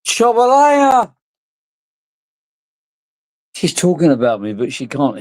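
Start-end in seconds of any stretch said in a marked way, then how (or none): 0.1-1.1 high-pitched, stretched-out holler; calling out. Real, not acted. Calling out during the stream.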